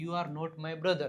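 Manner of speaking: very slow, every word drawn out; slow dictation. Shown as a demonstration. Teacher modelling the sentence for students, very slow. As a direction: spell it out for beginners. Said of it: "તમે મારા ભાઈ નથી".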